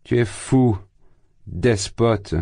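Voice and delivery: high, furious outcry; yelling. A narrator's reading. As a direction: hurl each insult separately. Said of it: "hurla Razumikine".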